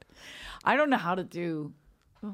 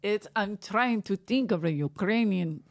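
slow, failed stab at a Ukrainian accent; attempted Ukrainian accent; slower than usual. Shown as a demonstration. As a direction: try a Ukrainian accent haltingly and badly. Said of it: "see, I can't do it".

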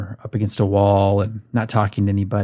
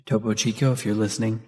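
ordinary talk

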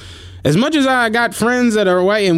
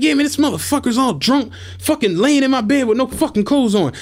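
imitating white boy; 7 semitones higher than usual. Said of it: "He's like".

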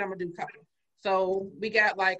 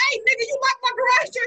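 retold angry call; 13 semitones higher, 5 dB louder than usual. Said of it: "I was like".

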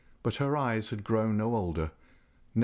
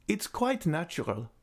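put-on old lady's voice; 8 semitones higher than usual. A narrator's reading. Echoed Raoul.

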